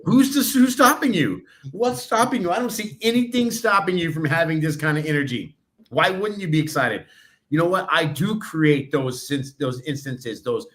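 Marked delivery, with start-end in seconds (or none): 0.0-7.1 excited retort. Retold or imitated. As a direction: fire it back at her full of energy. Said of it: "And I'm like".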